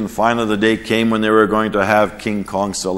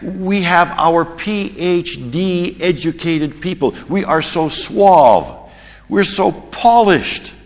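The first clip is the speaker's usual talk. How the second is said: slow, rising from louder to a high shout; building mock boast; 7 semitones higher, 4 dB louder, slower than usual. Preacher mocking the church's show, building to a shout.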